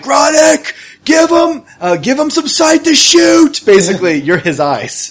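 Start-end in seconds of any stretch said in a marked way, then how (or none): 0.0-3.6 high urgent yell, slow; screaming. Acted. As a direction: shout it while running. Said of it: "he's screaming towards Gronick".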